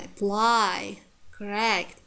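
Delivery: "apply, correct" with schwa first, then PLY and RECT stressed; careful model of a-PLY, cor-RECT in "apply, correct"; reduced first syllables. Shown as a demonstration. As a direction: swallow the first vowel of "apply" and "correct", hit the second. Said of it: "the first syllables are reduced".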